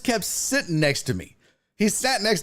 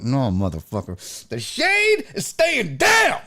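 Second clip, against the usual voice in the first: mock threat; slower than usual. Mock-threatening quote to seat neighbour.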